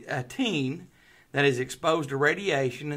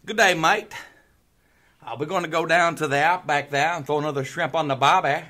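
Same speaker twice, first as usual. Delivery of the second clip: exaggerated Australian accent, loud; hammy Aussie 'good day mate'; 6 dB louder than usual. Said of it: "Do an Australian accent".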